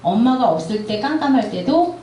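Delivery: put-on a touch of a mother soothing her child; gentle mother. Mother comforting a child afraid of the dark, gently. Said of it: "이렇게 얘기해 주시면 된다고 해요".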